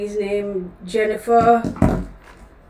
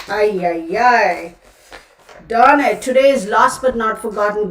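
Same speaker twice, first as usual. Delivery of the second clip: exasperated; 6 dB louder than usual. Real, not acted. Frustrated at her mistake.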